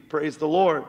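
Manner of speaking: "Lord" carried full and falling; preaching exclamation. Acted. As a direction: proclaim it to the church. Preacher's exclamation closing a passage.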